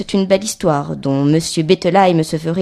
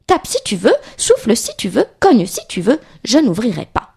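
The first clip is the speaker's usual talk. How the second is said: defiant little pig; 3 semitones higher than usual. Acted. Little pig dares the wolf outside, defiant. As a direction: dare the wolf as a lightly voiced piglet.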